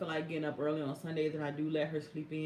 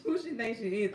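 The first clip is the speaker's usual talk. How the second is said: laughing; 5 semitones higher than usual. Real, not acted. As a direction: repeat it breaking into real laughter. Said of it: "I was still laughing".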